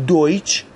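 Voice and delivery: دویچ ending in a "ch" sound; TSCH ending. Shown as a demonstration. Teacher showing the last combination, دویچ as "doytch".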